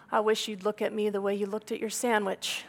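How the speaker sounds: quoting the husband through a laugh; giggling as you repeat his line; half-laughing retold tease; laughing through the quote. Husband's teasing comment retold.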